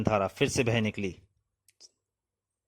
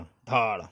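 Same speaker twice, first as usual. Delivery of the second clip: short vocal "dhaad" bang; imitated crash; much slower than usual. A narrator's reading. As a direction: voice the thud of breakage. Narrator voices the panel breaking.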